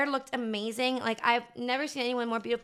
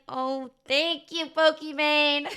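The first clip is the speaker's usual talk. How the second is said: starstruck gush; 3 semitones higher, much slower than usual. Retold or imitated. Starstruck fan thanking streamer.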